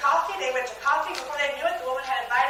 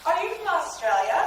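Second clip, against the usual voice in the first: higher, rising acted question; eager question; 4 semitones higher than usual. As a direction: perk up as if spotting an Australian. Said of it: "When I hear an Australian accent".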